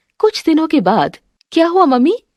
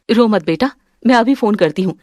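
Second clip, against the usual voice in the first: normal talking voice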